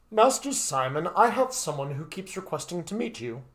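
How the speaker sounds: a hint of a courteous butler; announcing butler. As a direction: announce a visitor politely, as a servant.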